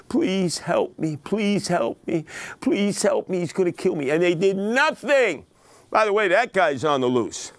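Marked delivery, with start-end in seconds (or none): 0.1-4.1 begging woman. Retold or imitated. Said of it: "she's begging everybody".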